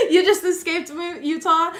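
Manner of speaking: high, loud laugh running into the words. Real, not acted. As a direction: talk through a real burst of laughter. Laughs at viewer's remark about Utah.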